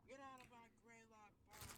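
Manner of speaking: put-on high cranky old ranger yelling; sputtering foiled villain. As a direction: shake your fist at the kids. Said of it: "old park ranger ... shaking his fist".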